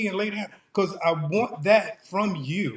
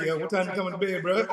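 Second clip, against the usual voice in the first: yelling across the room; 4 dB quieter, faster than usual. Retold or imitated. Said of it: "I'm upstairs at twelve thirty".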